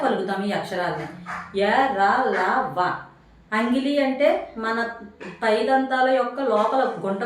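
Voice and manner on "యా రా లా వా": యా, రా, లా, వా each long, tongue lifted to the palate; palate-made sounds. Shown as a demonstration. Teacher showing the tongue's touch, separately stretched యా, రా, లా, వా. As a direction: enunciate యా, రా, లా, వా one at a time. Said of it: "మన అంగిలిని తాకుతా".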